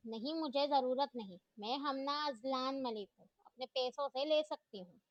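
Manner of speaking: mildly defiant, stress on Hamna; girl refusing the teacher's money, lightly stubborn. Acted. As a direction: refuse the help with stubborn pride. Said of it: "हमना ने जिद्दी अंदाज में कहा".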